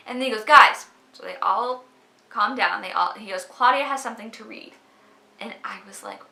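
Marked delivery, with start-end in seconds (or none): 0.4-0.9 calling out. Retold or imitated. The guy next to her calls the room to order, loud shout. 3.4-4.7 a touch louder announcement; announcing to group. Retold or imitated. The guy announces Claudia to the group, mildly raised.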